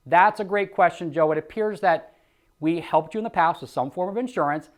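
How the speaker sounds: easy, friendly phone-agent answer; relaxed rep demo; natural sales reply. Shown as a demonstration. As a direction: sound natural and confident. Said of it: "See how natural that was?".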